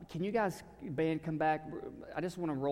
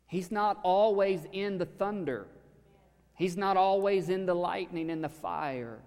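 booming declaration; 5 semitones higher, 5 dB louder than usual. Acted. Preacher contrasts thunder with quiet.

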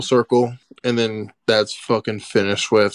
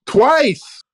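indignant yell; 13 semitones higher, slower than usual. Real, not acted. Friend interrupting to shout about the double headshot in disbelief.

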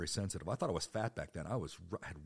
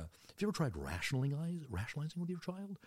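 mocking doctor voice; 9 semitones higher than usual. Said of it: "doctor said".

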